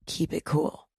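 a calm hush to show composure. Shown as a demonstration. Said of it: "You can even lower your voice like this".

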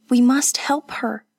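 frightened hushed urgency; whispering beside the stricken girl; urgent whisper. A narrator's reading. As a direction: whisper it, scared and pressing. Frightened woman over dying girl.

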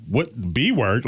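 slow, stern mock scold; a hint of a stern mother. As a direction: drag it out like a disapproving mom. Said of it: "She was like".

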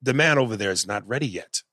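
mock a Jamaican accent that starts off and fades; inconsistent Jamaican accent. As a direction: imitate an actor slipping out of Jamaican. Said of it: "would start off and fall off".

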